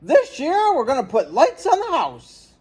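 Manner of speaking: high, bright-eyed announcement; big proud announcement; excited dad announcing. A narrator's reading. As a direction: announce it like a thrilled father. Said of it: "he announced".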